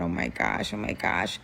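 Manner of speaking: frightened whisper. Retold or imitated. Hostage whispers in fear to herself. Terrified in the speeding car.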